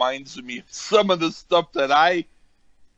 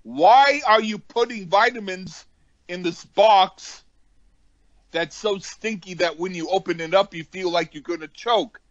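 exasperated; 5 semitones higher than usual. Retold or imitated. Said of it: "I went".

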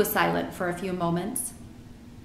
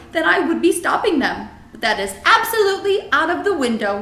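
helpless friendly giant, higher and louder; BFG; 8 semitones higher, 6 dB louder than usual. A narrator's reading. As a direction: plead your case as a regretful giant.

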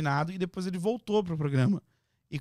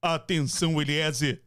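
formal announcer read, slow and deliberate; mock announcement. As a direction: read it like the show's official voice. Fake reality show announcement.

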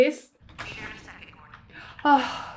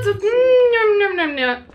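nom nom eating noise; 6 semitones higher, slower than usual. Retold or imitated. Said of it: "Those are the sounds we're making".

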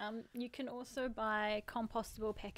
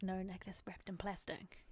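mock scolding whisper; 4 dB quieter than usual. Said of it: "be like".

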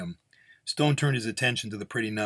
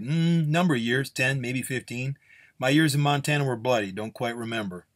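higher start, trailing into vagueness; evasive gunslinger; 4 semitones higher, 3 dB louder than usual. Acted. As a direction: dodge with a hazy recollection. Gunslinger recalls Montana.

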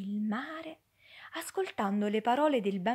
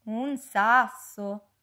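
surprised; 7 dB louder, much slower than usual. Acted. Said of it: "risposero gli amici".

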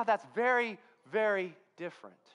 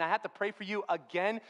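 mildly exasperated lawyer, acted; a touch of put-upon grievance; frustrated, upset. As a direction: complain about having to do it repeatedly. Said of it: "this frustrated lawyer who's just so upset".

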